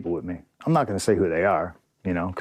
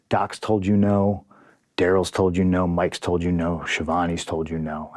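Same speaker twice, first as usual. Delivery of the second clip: polite. Retold or imitated. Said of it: "And I very politely".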